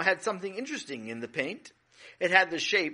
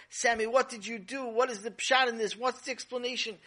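higher, urgent questioning; alarmed mother; 6 semitones higher than usual. Acted. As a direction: demand an explanation, pitched up. Mother confronts son over mess.

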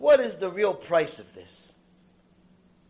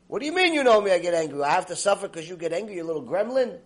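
mock scolding, hit the first words hard; playing the fed-up victim; acted indignant retort; faster than usual. Acted quarrel with angry person.

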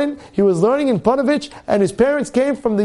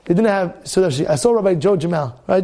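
ordinary delivery

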